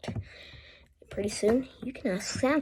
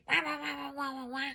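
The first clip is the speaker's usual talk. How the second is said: wah wah duck sound; 5 semitones higher, 9 dB quieter, faster than usual. Shown as a demonstration. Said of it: "I'm not going".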